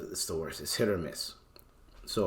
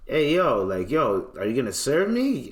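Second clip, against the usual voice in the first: retold call out; 3 semitones higher, 3 dB louder than usual. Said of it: "and I said".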